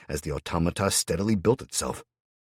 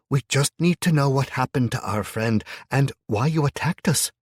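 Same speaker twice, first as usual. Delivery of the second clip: higher, pleading woman's voice with a lilt; Hannah pleading; 7 semitones higher, 5 dB louder than usual. A narrator's reading. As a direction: beg him gently to talk.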